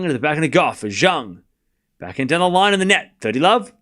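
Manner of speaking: running rally commentary, stroke by stroke; tennis play-by-play. Real, not acted. Commentator following a Goff and Zhang rally, live play-by-play. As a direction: call each shot as it lands.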